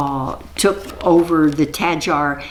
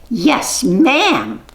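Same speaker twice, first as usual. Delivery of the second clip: high, sharp witch correction; high prim witch voice; witch correcting; 9 semitones higher, 3 dB louder than usual. Acted. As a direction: pitch it way up as the witch.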